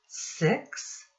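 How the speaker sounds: a breathy whisper on the number six. Acted. Teacher to children counting fingers, whispering the six. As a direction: whisper it like a little secret.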